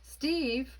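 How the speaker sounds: high, loud call of a name. A narrator's reading. Mom calls her son from downstairs, calling out. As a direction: holler for your son upstairs. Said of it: "Mom called".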